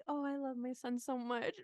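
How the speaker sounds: softly gushing mother, lightly put on; mock loving. Mother gazing at her son's photo, mock loving. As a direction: coo it with mock tenderness. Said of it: "she looks at it very lovingly".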